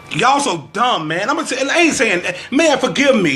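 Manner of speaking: exasperated, pitch jumping up; fed up, voice rising into an apology; real frustration. Real, not acted. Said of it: "I don't mean to be so frustrated".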